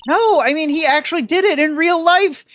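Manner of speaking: put-on high, loud insistent girl voice; excited high voice.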